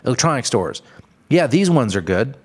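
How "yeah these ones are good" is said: mock store clerk. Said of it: "I hear this at, like, shoe stores".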